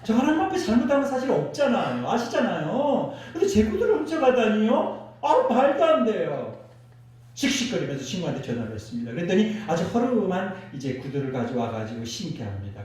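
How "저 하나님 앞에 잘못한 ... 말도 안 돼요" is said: pitched-up complaining prayer; mock grumbling. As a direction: moan to God about the unfairness. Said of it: "넋두리를 하면서".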